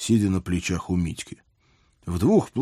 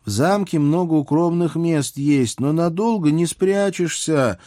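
seriously pondering princess; 9 semitones higher, 3 dB louder than usual. A narrator's reading. Princess considers hiding places in the castle, seriously pondering. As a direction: weigh it up in a higher, lingering voice. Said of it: "серьёзно задумалась царевна Василиса".

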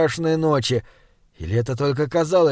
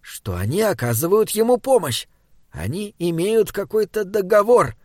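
lightly voiced Binabek; 3 semitones higher than usual. Companion reasons with Simon about the Norns' bargain, lightly voiced and lilting. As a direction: lightly play a thoughtful, questioning companion.

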